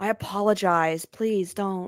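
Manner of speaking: put-on low, deep-voiced valley girl voice. Repeating the other speaker's line back, in a low valley girl Sora voice. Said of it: "You gave him, like, a low valley girl voice".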